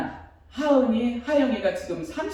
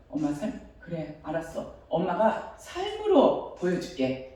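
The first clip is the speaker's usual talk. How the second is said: quiet resigned reply; 3 semitones lower, 6 dB quieter than usual. Retold or imitated. Mother's quiet reply to son.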